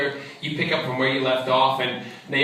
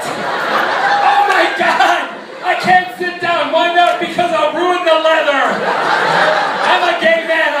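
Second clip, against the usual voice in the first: high, loud, slowed panicked yelling; hammed-up desperate shouting at a friend; frantic panic; 7 dB louder, slower than usual. Retelling car panic dialogue.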